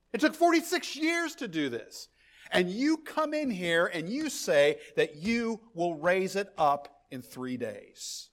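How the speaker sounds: imitating scornful disbelief at the claim; indignant crowd. Preacher playing the crowd mocking Jesus's claim, indignant.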